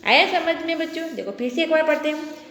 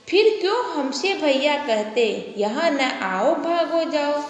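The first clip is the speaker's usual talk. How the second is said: slow, measured reading of a poem line; slow sing-song classroom verse; poem recitation; slower than usual. Shown as a demonstration. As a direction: recite it slowly for the children. Teacher reciting the child's verse.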